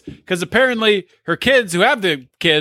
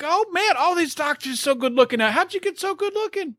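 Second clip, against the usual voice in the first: flirty imitation; 8 semitones higher, 4 dB quieter than usual. Angela quoted flirting with doctors.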